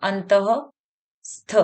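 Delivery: अंतस्थ stretched very slowly syllable by syllable; slow sounding out. Shown as a demonstration. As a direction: draw out अंतस्थ so children catch each sound. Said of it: "दूसरा है अंतस्थ".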